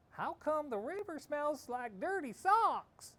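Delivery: high, slow, wondering question; puzzled townsfolk. Acted. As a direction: ask it like baffled strangers. Distant people puzzled.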